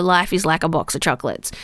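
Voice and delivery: badly faked Forrest Gump accent; hammy, clumsy attempt at Forrest Gump's accent; terrible accent. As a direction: quote the film in a bad put-on accent. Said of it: "That was a terrible accent".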